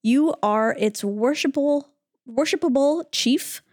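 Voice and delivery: measured verse reading with pauses; scripture reading. Acted. Reading Arjuna's verse to fellow hosts, reverent recitation. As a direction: read it out phrase by phrase, reverently.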